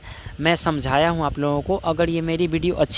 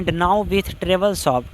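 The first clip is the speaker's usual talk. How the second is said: very slow quoting of a verse phrase; slow classroom recitation of a poem; 2 semitones higher, much slower than usual. Shown as a demonstration. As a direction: drag the phrase out word by word. Teacher quotes verse line.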